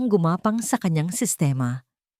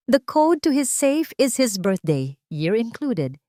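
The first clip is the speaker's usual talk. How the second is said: eager rival; 6 semitones higher, slower than usual. Acted. Scheming rival gives safe code.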